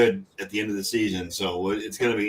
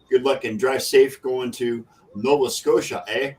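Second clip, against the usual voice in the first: put-on Canadian accent. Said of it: "I just destroyed the Canadian accent".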